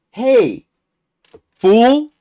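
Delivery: imitating a guard's punchy call. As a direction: holler it to get his attention. Retelling guard hailing someone.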